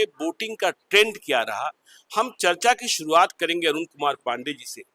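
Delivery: emphatic presenter's opening, punched key words; news show introduction. Real, not acted. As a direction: introduce the panel in a projected anchor voice. (समाचार anchor का ज़ोरदार परिचय)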